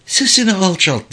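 a mother begging her son to hush; pleading. A narrator's reading. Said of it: "diye yalvardı Umayma".

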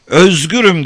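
high, loud cry of freedom; exultant shout. A narrator's reading. Girl leaping up in the carriage, shouting exultantly. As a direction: cry it out at the top of the voice. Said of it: "olanca sesiyle".

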